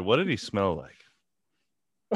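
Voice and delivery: mock serious. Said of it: "I'm just kidding".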